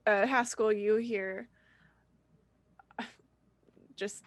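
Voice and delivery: ordinary delivery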